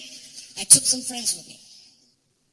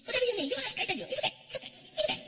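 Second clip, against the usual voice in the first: much higher, cheerful driver brushing it off; Saudi driver voice; 12 semitones higher, faster than usual. Retold or imitated. Driver reassuring nervous comedian in the SUV, high and breezy. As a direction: soothe him with a sing-song it's okay.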